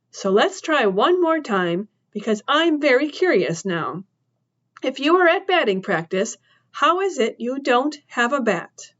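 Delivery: lightly voiced woman, teasing menace; a hint of a curious threat; woman pressing the boy at knifepoint; menacing woman.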